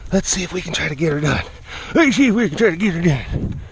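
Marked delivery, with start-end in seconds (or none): 1.9-3.6 mock silly echo of oneself. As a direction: repeat it in a playful funny voice. Line repeated in silly voice.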